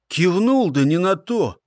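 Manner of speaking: displeased grumble; grumbling. A narrator's reading. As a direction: mutter it with displeasure. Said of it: "недовольно буркнул первак".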